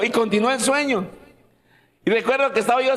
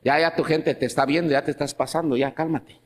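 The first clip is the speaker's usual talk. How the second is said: hushing the pastor; 5 semitones lower than usual. Retold or imitated. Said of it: "decía".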